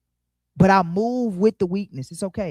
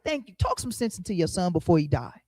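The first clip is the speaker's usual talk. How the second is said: grateful king. Retold or imitated. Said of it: "he like".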